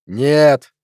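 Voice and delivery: a short, sharp refusal; snapped. Acted. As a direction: snap the word back. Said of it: "огрызнулся учёный".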